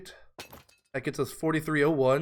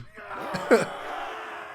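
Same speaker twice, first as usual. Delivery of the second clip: unvoiced burst of laughter; breathy laugh; 7 semitones higher than usual. Real, not acted. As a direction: laugh at the glitch. Laughs at pathfinding bug.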